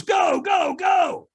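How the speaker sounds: high, loud shouted go; yelled go. Retold or imitated. Trainer shouting him onto the hot coals, high loud yell. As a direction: launch him like a starter's yell.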